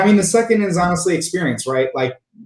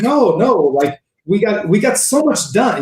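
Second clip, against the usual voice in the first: higher-pitched mock Israeli English; Israeli English accent; 7 semitones higher than usual. Senior Israeli reassuring him after the meeting, Israeli accent. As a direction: put on a hammed-up Israeli accent. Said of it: "my terrible Israeli English accent".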